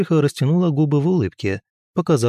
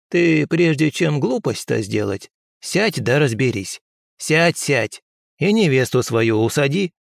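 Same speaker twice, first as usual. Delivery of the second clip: slow, higher crone voice; instructing old woman; 3 semitones higher than usual. Acted. Old healer tells him to sit and think, slow. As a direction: settle him down like a stern grandmother.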